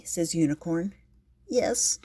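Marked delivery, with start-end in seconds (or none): 1.5-2.0 small high squeaked yes; shy kitty squeaking yes. Acted. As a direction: let it come out tiny and high. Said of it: "squeaks Kitty".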